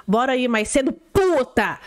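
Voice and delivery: imitated theatrical intonation landing on "puta"; imitating emphatic reading. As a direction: read it like a script, leaning hard on "puta". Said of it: "ele tá lendo assim".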